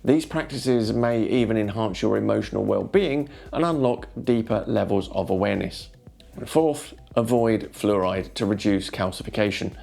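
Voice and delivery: smooth, measured narration over music; soothing documentary-style voiceover; wellness voiceover. Acted. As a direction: read it like a calm inspirational video script.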